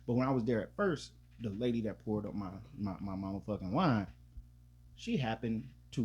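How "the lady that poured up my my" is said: ordinary talk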